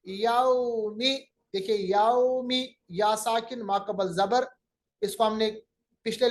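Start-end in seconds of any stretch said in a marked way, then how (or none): 0.1-1.3 "यौमी" slowly, with a gliding au; soft waw leen. Shown as a demonstration. Teacher showing waw leen in "यौमी", soft glide. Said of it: "आवाज को मुलायम बनाना". 1.9-2.8 "यौमी" with a slow, soft au glide; soft waw leen. Shown as a demonstration. Teacher explaining waw leen with "यौमी", soft glide. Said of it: "आवाज को मुलायम बनाना".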